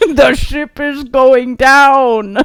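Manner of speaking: put-on slow Russian-accent announcing. Retelling a movie scene announcement over a ship loudspeaker: imitating a Russian voice. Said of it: "you hear this Russian voice over the, like, loudspeaker".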